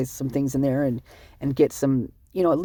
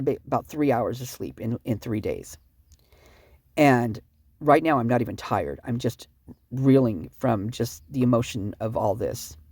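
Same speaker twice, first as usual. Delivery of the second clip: low, drained voice; barely holding it together; upset and exhausted; 5 semitones lower than usual. Real, not acted. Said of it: "I'm just so upset right now".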